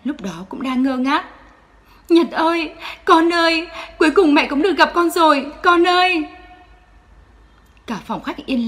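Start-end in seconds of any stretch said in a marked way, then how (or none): 2.1-6.3 high, loud crying-laughing call; a mother reunited, sobbing with joy; tearful joy. Acted. Người mẹ gặp lại con. (vừa khóc vừa mừng gọi con)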